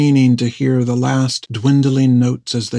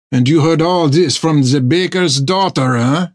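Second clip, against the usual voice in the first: higher, skeptical teasing; wry doubt; 4 semitones higher than usual. A narrator's reading. Armand skeptically teasing Topper, higher and wry. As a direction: needle him gently.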